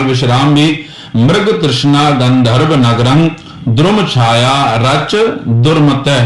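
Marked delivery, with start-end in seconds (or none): 1.2-6.2 ਦ੍ਰੁਮ said as one cluster, ਦੁਰਮਤੈ ending in ai; a model reading of the verse for students; careful recitation. Shown as a demonstration. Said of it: "ਹੁਣ ਇਹਦਾ ਵੀ ਉਚਾਰਨ ਸੁਣਨਾ ਧਿਆਨ ਨਾਲ".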